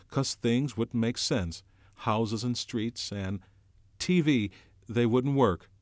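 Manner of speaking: put-on earnest boy reasoning. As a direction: explain it carefully to calm a friend. Piggy's voice held.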